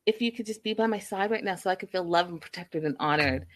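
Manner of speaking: mildly sweet, sugary plea; a touch of syrupy sweetness; mock sweet. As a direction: imitate a fiancee laying on the sweetness. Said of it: "trying to be all sweet and lovely".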